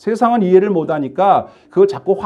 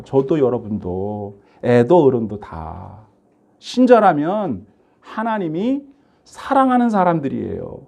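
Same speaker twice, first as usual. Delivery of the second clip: tender assurance; 4 semitones lower, slower than usual. Real, not acted.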